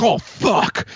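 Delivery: high-pitched acted dismay; mock panic. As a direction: re-enact a sudden oh-no moment. Retelling reaction to surprise text.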